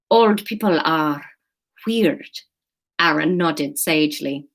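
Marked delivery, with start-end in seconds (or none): 0.1-2.4 put-on slow, measured Spanish-accented verdict; Spanish-accented student, pausing before the last word. Student nods sagely about old people, Spanish accent. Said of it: "Let's do Spanish".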